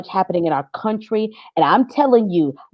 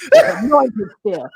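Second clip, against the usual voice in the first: slowed, drawn-out "anointed"; slow smug; slower than usual. Retold or imitated. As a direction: stretch it out with mock holiness. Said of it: "He's like".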